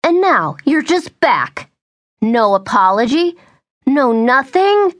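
put-on mother scolds the drunk boyfriend, indignant. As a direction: drag out the outrage.

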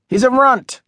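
put-on a high scoffing boy; sneering taunt. A narrator's reading. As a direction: sneer down at the little kid. Boys mock the newcomer.

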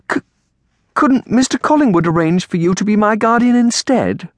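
put-on high, stammered girlish plea; pleading. A narrator's reading. Girl begs aunt to be her guardian, pleading. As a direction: beg like a desperate child. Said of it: "Amelia pleaded".

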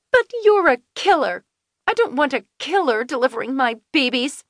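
high, sharp accusing snap; snapping Finley. A narrator's reading. Pregnant Finley snaps at Kelsey, high and bitter. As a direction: spit it at her like an accusation. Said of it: "Finley snapped".

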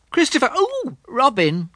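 Pooh's voice calling up high. Acted. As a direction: call down to the boy from the sky. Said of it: "called out the cloud".

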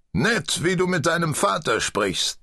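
mild rebuke, pitched high; gentle reproach. A narrator's reading. Old father gently chides his son, reproachful. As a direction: chide him gently, voice lifted. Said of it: "tadelte ihn der alte Torwater sanft".

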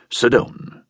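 clipped command to a subordinate; curt order. A narrator's reading. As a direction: order him down, short and cold. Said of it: "said curtly, like a man speaking to a subordinate".

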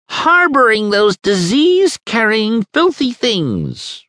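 high, loud disgusted voice; shrill old neighbour. A narrator's reading. Angry neighbour complaining to Krieger, high and loud. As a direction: spit the word out in disgust. Mrs Arbour's complaint quoted.

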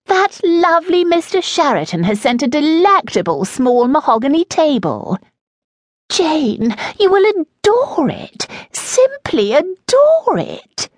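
Lady Adelaide gushing. A narrator's reading. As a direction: swoon over the new table.

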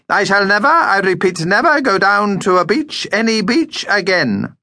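high, emphatic, indignant vow; loud declaration. A narrator's reading. Vampire in a pram announces his refusal to the family, loudly. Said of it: "declared loudly".

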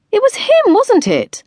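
high, loud indignant outburst; furious realisation; outraged. A narrator's reading. Tilly to Erin about the driver, outraged. Outraged after being splashed.

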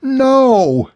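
very high, drawn-out shriek; desperate scream. A narrator's reading. Woman lunging at the man with the syringe, screaming. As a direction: scream it in frantic protest. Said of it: "she screamed".

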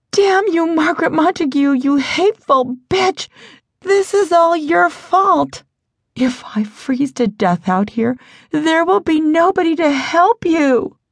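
high, angry outburst flung into the wind; frustrated shout. A narrator's reading. Stranded girl curses Margaret Montague into the blizzard, shrill angry shout. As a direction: curse her out, pitched high and hard. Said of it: "She shouted her frustration into the wind".

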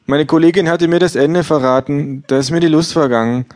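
hohes, lautes gleichgültiges Ja; Buchhändlerin. Acted. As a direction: ein schrilles Ja ohne Interesse. Bookseller voiced high. (Verkäuferin antwortet hoch und laut gleichgültig)

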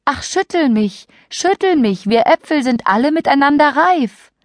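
high, calling voice; calling apple tree voice. Acted. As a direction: call out high and eager. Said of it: "rief ihm zu".

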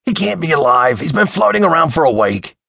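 high, agitated insistence; worked-up, pitched-high disbelief; panicked protest. A narrator's reading. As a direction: argue in alarm that it is impossible. Joel argues in panic.

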